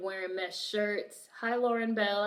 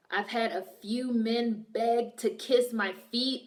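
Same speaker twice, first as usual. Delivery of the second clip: put-on voice; slower than usual. Reading a comment in put-on voice.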